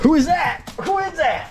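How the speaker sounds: high, sing-song pet talk. Real, not acted. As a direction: coo at the dog. Greeting the pets at the door.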